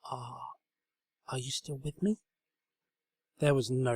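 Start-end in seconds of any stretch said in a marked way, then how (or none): 0.0-2.2 soft hushed call; quiet whisper. A narrator's reading. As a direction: barely voice it. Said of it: "she whispered quietly".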